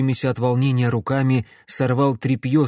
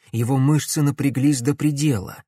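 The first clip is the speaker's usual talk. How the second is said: ordinary delivery, nothing marked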